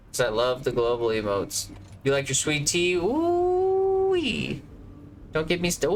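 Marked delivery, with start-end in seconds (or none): 2.9-4.6 delighted whoop. Real, not acted. Gushing over sweet tea.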